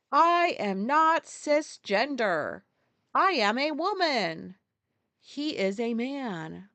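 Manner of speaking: slow, emphatic mock politician; retelling a politician to viewers, slow mocking emphasis; mocking quote. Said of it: "one of the pubes was like".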